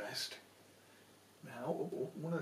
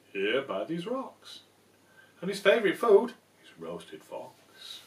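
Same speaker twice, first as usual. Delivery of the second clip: sly mouse; 3 semitones higher, 9 dB louder than usual. Acted. Mouse springs the trap.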